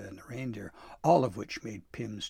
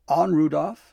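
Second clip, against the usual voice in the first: loud, higher driving command; urging on; 6 semitones higher, 13 dB louder than usual. A narrator's reading. Santa taking the reins of the sleigh, loud urging call. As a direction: call out to spur the reindeer on. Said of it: "Santa clucked".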